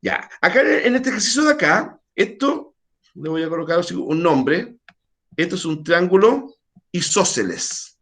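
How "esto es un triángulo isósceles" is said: slow naming. Shown as a demonstration. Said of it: "Así se llama el triángulo".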